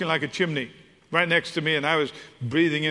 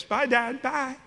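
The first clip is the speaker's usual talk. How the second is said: put-on higher, breezy teen calling goodbye; teenage daughter; 6 semitones higher, slower than usual. Dad voicing his teenage daughter rushing out the door. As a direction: toss off a hurried bye like a teen.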